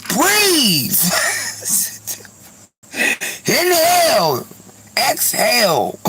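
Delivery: high, mock calming through laughter; laughing breathe. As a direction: tell yourself to breathe mid-laugh. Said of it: "I'm like".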